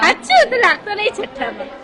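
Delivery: high, loud disbelieving "really?"; can't believe it; surprised. Real, not acted. Host amazed to hear the boy's class.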